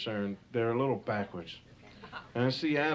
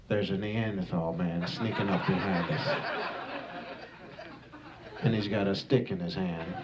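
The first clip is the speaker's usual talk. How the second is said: saber-toothed tigers gossiping. Acted. Comic tiger sounding off to another tiger, lightly voiced.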